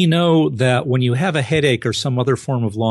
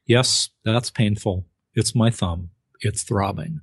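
flat, emotion-free; 3 semitones lower than usual. Retold or imitated. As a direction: report the pain like reading a list. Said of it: "in a very flat, emotion-free voice".

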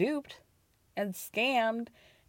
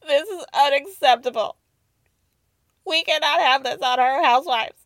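mock outraged fan; 6 dB louder than usual. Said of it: "People are, like, genuinely".

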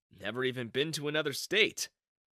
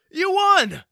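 even higher, far louder shriek of joy; ecstatic scream; 12 dB louder than usual. Acted. Coworker screaming the win to Grant, ecstatic shriek. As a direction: scream it at full lungs. Announcing raffle winner.

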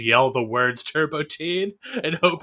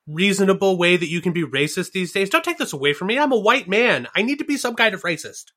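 mock racist rant; 4 semitones higher than usual.

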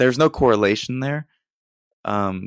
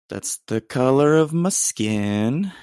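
slow, drawn-out mock-serious line; deadpan slowed-down aside; odd mock delivery; 4 semitones higher, slower than usual. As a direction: say it slowly like an odd joke announcement. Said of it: "Not sure why I did that".

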